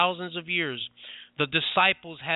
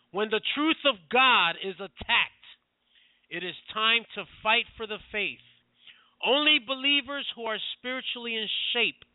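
fiery revolutionary speech; 3 semitones higher than usual. Real, not acted. Rising call to fight.

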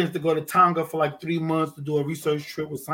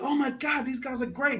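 high, softer imitation of admiration; mock awe; 7 semitones higher, 7 dB quieter than usual. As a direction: gush like an impressed onlooker. Imitating impressed onlookers who can't swim.

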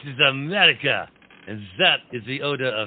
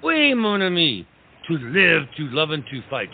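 grand declaration; 5 semitones higher, 3 dB louder than usual. Acted. Lafayette echoes the motto grandly.

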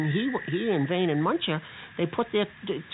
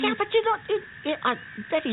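exasperated. Acted. Friend brushes teeth mid-rescue.

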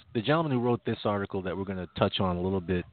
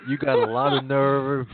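mock indignant; 4 semitones higher, 5 dB louder than usual. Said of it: "I think the attitude was more".

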